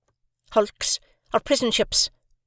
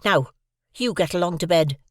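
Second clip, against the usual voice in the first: scolding sister; 7 semitones higher than usual. A narrator's reading. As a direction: tell the boy off firmly. Sister scolds and sends to bed.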